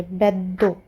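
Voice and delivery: बेद्दो with the d held and pressed; बेद्दो, d clipped then released; stressed double d. Shown as a demonstration. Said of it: "दो को जोर लगा के बोलेंगे".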